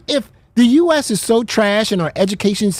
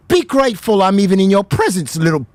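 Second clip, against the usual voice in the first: mock snooty voice; 3 semitones lower than usual. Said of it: "they just go".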